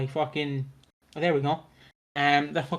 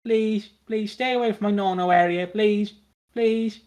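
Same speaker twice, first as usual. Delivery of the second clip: mock pleading; 5 semitones higher than usual. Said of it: "I'd be like".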